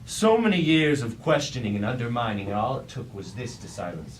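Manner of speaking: loud, bitter reproach; angry rebuke. Acted. Megatron berating his lieutenant, loud and bitter. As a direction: hurl the years of doubt back at him. Megatron scolding a silent Starscream.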